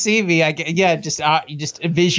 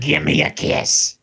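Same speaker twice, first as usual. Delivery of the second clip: slow, put-on old lady voice; elderly singsong; 2 semitones lower than usual. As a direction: coo it like a doting grandma. Voicing a grandma.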